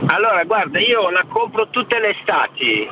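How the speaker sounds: phone line audio; over the phone. Real, not acted. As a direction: caller on a Bluetooth call. Caller on Bluetooth phone line.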